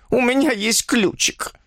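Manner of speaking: high, slow, anxious woman's voice; nervous, pleading eagerness; trembling plea. A narrator's reading. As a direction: offer it anxiously, pitched high. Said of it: "попросила она дрожащим голосом".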